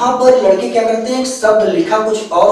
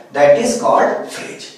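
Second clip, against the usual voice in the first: slow dictation; 5 semitones lower, much slower than usual. Shown as a demonstration. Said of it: "उसका मतलब क्या है?".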